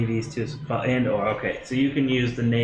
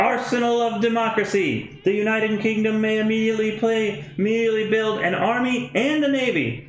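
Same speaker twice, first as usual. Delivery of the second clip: put-on British accent; 8 semitones higher than usual. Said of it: "I can't do British accents".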